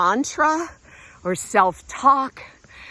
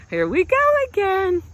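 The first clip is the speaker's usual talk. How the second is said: mock groan; 11 semitones higher than usual. Real, not acted. Hiking lap around the lake.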